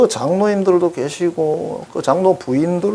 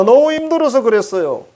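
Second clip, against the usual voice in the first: high, louder pleading excuse, stress on 너무; whiny excuse; 9 semitones higher, 3 dB louder than usual. Retold or imitated. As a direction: whine the excuse like a sinner. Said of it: "사람들이 이렇게 말합니다".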